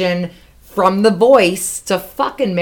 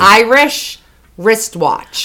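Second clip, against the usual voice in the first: "Irish wristwatch" stretched out very slowly; slow demo of the tongue twister; slow model; much slower than usual. Shown as a demonstration. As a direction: spell out "Irish wristwatch" slowly for them to copy. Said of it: "But say it fast".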